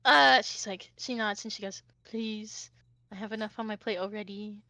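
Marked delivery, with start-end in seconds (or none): 2.0-4.6 very soft, tired acceptance; weary plea. Acted. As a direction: ask quietly, worn down. Overburdened Sarah accepts help.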